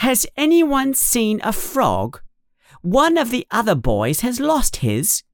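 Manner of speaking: high, bossy schoolgirl voice; officious girl, pitched well up. A narrator's reading. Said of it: "a very bossy voice".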